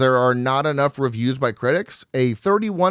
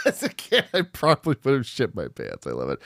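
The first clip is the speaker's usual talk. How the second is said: laughing; 5 dB quieter, faster than usual. Real, not acted. Repeats quote laughing.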